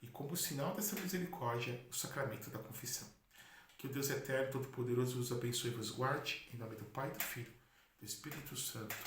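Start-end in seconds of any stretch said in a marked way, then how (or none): 3.8-9.0 solemn blessing, softening toward the end; priestly blessing. Real, not acted. Priest blessing his listeners, solemn and fading. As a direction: bless the people like closing Mass, fading gently.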